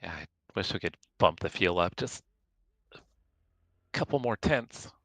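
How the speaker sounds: talking while chewing food; words around a mouthful of food. Real, not acted. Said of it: "Sorry, chewing food".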